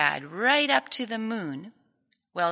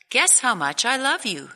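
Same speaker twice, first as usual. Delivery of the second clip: little hare; 5 semitones higher, 4 dB louder than usual. Acted. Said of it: "he said".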